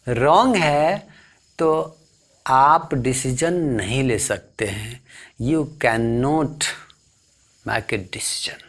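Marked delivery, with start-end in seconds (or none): 5.4-8.6 whispered aside. Shown as a demonstration. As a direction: whisper the English line. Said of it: "teacher drops to whisper". (फुसफुसाकर अंग्रेज़ी में)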